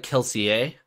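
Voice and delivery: Kelsier ending in a French "-ay"; French pronunciation. Shown as a demonstration. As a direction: give Kelsier a French ending, "Kel-see-ay". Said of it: "is more like Kelsier".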